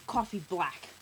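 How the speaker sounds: curt, loud grumpy order; gruff old man. A narrator's reading. Old man ordering at the cafe, gruff. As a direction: order it bluntly, no pleasantries. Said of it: "This man says".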